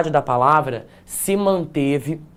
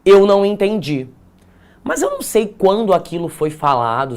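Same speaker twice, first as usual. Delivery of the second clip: imitating confused students; 4 semitones higher than usual. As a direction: mimic a student announcing they're lost. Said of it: "vocês estão assim".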